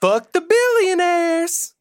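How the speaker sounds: high, loud, drawn-out yell; over-the-top battle cry, stretched long; hollered slogan. Pretend. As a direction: shout it like a mock rallying cry. Hollers the show's catchphrase.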